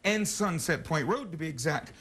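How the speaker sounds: upbeat on-air sales pitch; TV host pitch. Acted. Morning TV host selling pawn shops: upbeat pitch. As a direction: hype the pawn shop to the viewers. Live remote intro.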